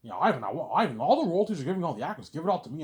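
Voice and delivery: loud, high insistent plea; greedy demand. Acted. Peter demands all the royalties from Ivan, loud and greedy.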